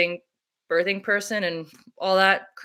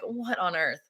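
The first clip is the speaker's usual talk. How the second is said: incredulous; 7 dB quieter than usual. Retold or imitated. Reaction to face shield.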